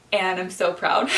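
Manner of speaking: a real tearful laugh breaks into the words; proud and choked up, laughing as it spills out; laughing through tears. Real, not acted. Telling her viewers she is proud, laughing through tears. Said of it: "did not expect to get emotional".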